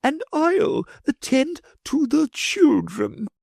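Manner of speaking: put-on taking charge of the children; lady commanding. A narrator's reading.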